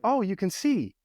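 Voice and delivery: pitched high, bright and pleased; delighted echo. Real, not acted. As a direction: cheer him on, lifting up high. Father answering son, delighted.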